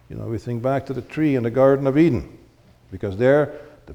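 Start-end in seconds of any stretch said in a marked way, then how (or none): none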